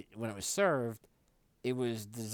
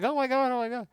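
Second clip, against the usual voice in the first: very high, loud panicked cry; panicked mom; 11 dB louder, faster than usual. Retold or imitated. Mom after driving the wheelchair into the table, panicked shriek. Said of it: "She was like".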